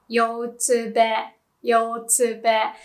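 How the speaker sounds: "yotsube" slowly as yoh-tsu-beh; slang pronunciation. Shown as a demonstration. Teacher showing internet slang for the site, clear demonstration. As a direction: say "yotsube" in clear Japanese syllables. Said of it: "Some people might call it".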